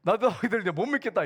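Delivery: mildly indignant grumble; mock scolding. Lazarus to his sisters who cleared his things, mock scolding. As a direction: scold them lightly, playing it up. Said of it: "동생들 야단치면서".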